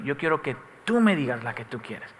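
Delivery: a quiet fatherly insistence. Retold or imitated. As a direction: repeat it softly and patiently, like a father waiting. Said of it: "te voy a repetir".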